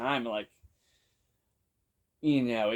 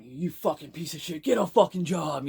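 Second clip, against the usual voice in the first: retold insult; 5 semitones higher, 5 dB louder than usual. Big dude insults beggar.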